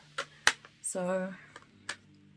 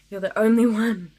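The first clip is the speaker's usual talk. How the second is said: emphatic repeat; 8 dB louder than usual. Retold or imitated. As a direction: repeat it a notch down. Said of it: "he would just be like".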